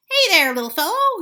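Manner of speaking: loud high call. A narrator's reading. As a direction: call across to him. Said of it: "he called to Dumbo".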